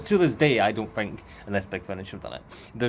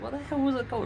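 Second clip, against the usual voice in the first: mock bafflement; much faster than usual. Retelling own confused thought.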